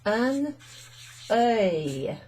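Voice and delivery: UN ŒIL said slowly in two parts, word by word; French pronunciation. Shown as a demonstration. Teacher showing learners the singular, French pronunciation. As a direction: model UN ŒIL clearly for learners. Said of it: "in the singular it's".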